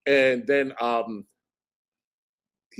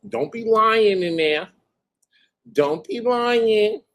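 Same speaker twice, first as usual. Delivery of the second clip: higher, louder sing-song scolding; taunting warning; 7 semitones higher, 3 dB louder than usual. Retold or imitated. Warning the attorney in court, taunting. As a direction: wag a finger at the liar. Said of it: "And I was like".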